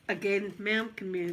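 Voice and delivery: lightly put-on American official; American accent. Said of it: "I don't know why I'm saying American accent".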